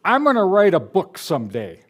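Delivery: high, loud declaration of a someday dream; mimicked reporters' boast. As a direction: proclaim it grandly, pitch lifted and swooping down. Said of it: "they say".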